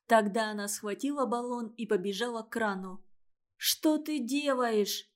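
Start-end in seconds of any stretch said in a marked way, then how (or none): 3.6-5.1 крик. Acted. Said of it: "закричала Клава".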